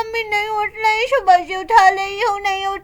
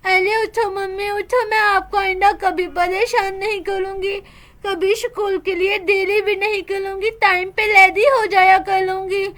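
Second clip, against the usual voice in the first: put-on pleading little girl. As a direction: promise to be good if mummy wakes. Daughter begs dead mother to wake.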